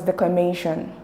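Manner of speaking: declaMAtion, weight on "ma"; stress on third syllable. Shown as a demonstration. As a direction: lean on the "may" sound in declamation. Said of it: "stress is right there in the third syllable".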